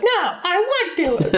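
put-on very high, slow, drawn-out child voice. Acting out a reply from an artificial superintelligence, in a high childlike voice. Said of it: "why is your voice so high like a child?".

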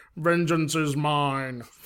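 dopey, brain-starved, oxygen-starved cheap action-figure voice. Mocking a 90s talking Marvel action figure; oxygen-deprived Punisher toy voice. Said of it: "He sounded like he'd lost oxygen to his brain".

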